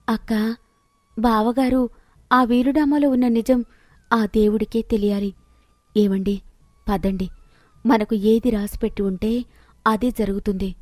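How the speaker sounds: a touch of hurt, held in; tearful resignation. Acted. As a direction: give in sadly and leave it to God. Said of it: "Sita ఏడుస్తూ".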